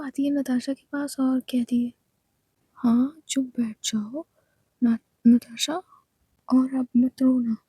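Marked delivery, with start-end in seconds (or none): 2.7-7.6 firm hushing. Acted. Aayesha hushes Natasha.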